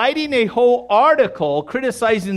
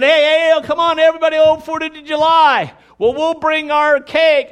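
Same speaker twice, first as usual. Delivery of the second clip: cheerful invite; 8 semitones higher, 5 dB louder than usual. Retold or imitated. Voicing cheerful relatives.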